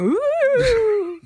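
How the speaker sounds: high, wavering ghostly ooh. Pretend. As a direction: moan it like a cartoon ghost. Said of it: "Do you like my ghost impression?".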